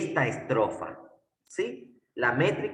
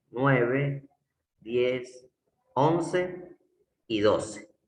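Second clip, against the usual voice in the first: counting syllables; much slower than usual. Shown as a demonstration. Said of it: "Vamos a contar".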